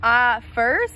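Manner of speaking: surprised cry. Acted. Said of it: "he cried out".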